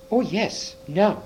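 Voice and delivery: bright high delighted cry; excited. A narrator's reading. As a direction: jump for joy in the voice. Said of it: "jumping up and clapping her hands".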